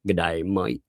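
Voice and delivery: rough attempt at an Australian accent; badly faked Australian accent. Shown as a demonstration. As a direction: try a hammy Aussie greeting. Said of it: "attempt at my accent".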